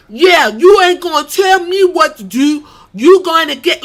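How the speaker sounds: loud, brash mock Italian-American accent; weird Italian accent. Woman telling off Tony's rival in a weird Italian accent. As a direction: exaggerate a Staten Island Italian accent, loud and high. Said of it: "talking in this weird-ass Italian accent".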